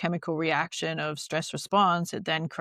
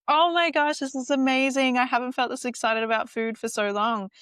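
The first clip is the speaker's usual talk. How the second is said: put-on like a kid in a candy store; 6 semitones higher than usual. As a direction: gush like a little girl in a candy store. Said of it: "how excited I was on the inside".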